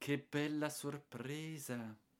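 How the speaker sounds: barely audible, faint, high thread of voice. Girls greet their aunt on her unexpected visit; faint voice. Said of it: "dissero con un filo di voce".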